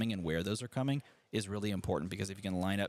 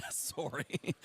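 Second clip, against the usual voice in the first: put-on teasing Canadian accent on sorry; 4 semitones higher than usual. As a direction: echo his sorry, Canadian accent style. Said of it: "It's my Canadian accent".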